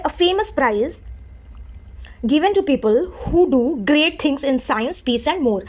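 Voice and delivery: very slow reading of given to people who do great things; each word spaced out. Shown as a demonstration. Teacher dictating a definition slowly to students. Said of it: "इसका मतलब है".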